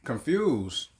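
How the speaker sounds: slow mock quote. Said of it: "She was like".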